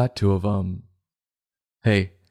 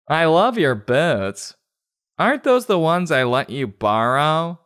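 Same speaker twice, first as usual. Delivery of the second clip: suspicious friend; 6 semitones higher than usual. Acted. Girl confronts friend over borrowed boots.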